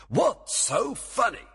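very high, slow exasperated question; irritated demand. A narrator's reading. Oberon asks why Puck laughs, demanding irritably. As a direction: demand an answer loftily. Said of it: "demanded the king".

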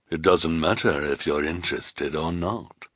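lightly voiced cold villain; quietly dismissive villain voice; understated menace; sinister woman.

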